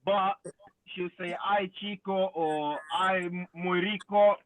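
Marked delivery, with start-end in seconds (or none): 1.4-2.3 put-on Hispanic accent. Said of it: "she got the accent, the Hispanic accent". 2.9-4.4 put-on Hispanic accent. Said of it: "she got the accent, the Hispanic accent".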